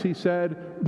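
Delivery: unhurried storyteller reading to a congregation; story narration. A narrator's reading. Pastor reads story to church, gentle storytelling. Reads The Rag Man aloud.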